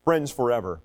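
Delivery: measured lines with pauses between; poem recitation. Acted. Pastor reciting a forgiveness poem for kids, measured recitation. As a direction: recite it slowly, line by line.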